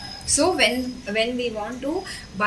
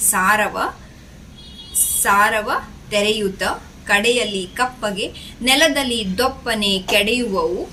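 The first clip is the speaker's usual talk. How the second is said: measured verse reading in short phrases; poem recitation; much faster than usual. Acted. Teacher reading the second stanza to children, measured recitation. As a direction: recite the stanza rhythmically, pausing between phrases.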